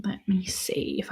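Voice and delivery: whispered to herself while searching; whispered aside while looking it up. Real, not acted. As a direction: drop to a whisper, murmuring. Muttering while searching online.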